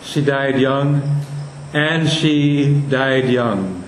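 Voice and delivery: put-on "and she died young" slow, even iambic beat; iambic reading. Shown as a demonstration. Teacher testing an iambic reading of the line. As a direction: tap it out as iambs, slowly. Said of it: "If it were an iamb".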